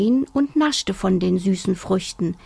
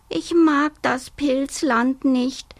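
high, slow plaintive whine; complaining cub; 5 semitones higher, slower than usual. Acted. Homesick little bear complains to his mother, whining high. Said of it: "klagte der kleine Bär".

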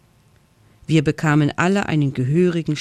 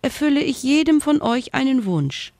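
squeaking fairy; 9 semitones higher than usual. Acted. Tiny fairy pleads with the friends, squeaking in fear. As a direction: squeak it out like a thumb-sized fairy. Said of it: "piepste sie".

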